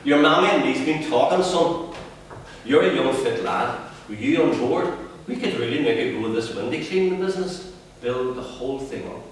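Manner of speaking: father selling his dream to his son, growing excited; eager father's pitch. Acted. Dad pitching the window cleaning business, rising eagerness.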